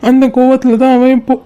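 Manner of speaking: tearful, hurt confession; crying. Acted. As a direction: pour out the heartbreak while weeping. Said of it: "டேய் அழாதடா".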